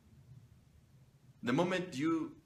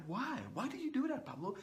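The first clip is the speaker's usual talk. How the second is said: high, mock-puzzled questioning; baffled friends; 9 semitones higher, 3 dB quieter than usual. Friends asking Pablo why he wears a suit on Sunday, high mock puzzlement. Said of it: "And they are like".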